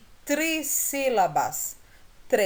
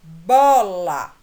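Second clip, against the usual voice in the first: "Bola" split as "bo-la", beat by beat; syllables split; 3 dB louder, much slower than usual. Shown as a demonstration. Teacher splitting "Bola" into syllables for students. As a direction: tap out each syllable of "bola", "caixa". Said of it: "Vamos separar as sílabas".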